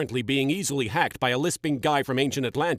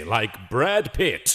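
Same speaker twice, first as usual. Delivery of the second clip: sultry; 5 semitones lower, much slower than usual. Acted. Hoping for a sexy name.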